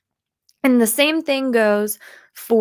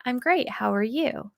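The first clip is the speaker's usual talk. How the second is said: toned down; 8 dB quieter than usual. Shown as a demonstration. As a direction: bring the energy down a little. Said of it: "bring it down a little bit".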